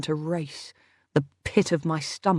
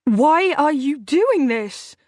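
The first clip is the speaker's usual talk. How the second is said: put-on high, slow childlike whine; whining child; 8 semitones higher, 4 dB louder, slower than usual. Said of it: "like a whining little child".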